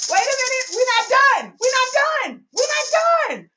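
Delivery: high, emphatic hype-up; excited insistence. Real, not acted. Excitedly holding off the celebration.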